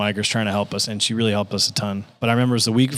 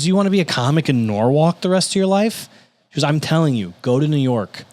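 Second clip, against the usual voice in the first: blunt, higher-pitched retold challenge; Lisa Lampanelli; 5 semitones higher, 4 dB louder than usual. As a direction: push the comic to aim bigger, no sugarcoating. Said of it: "she says it like it is".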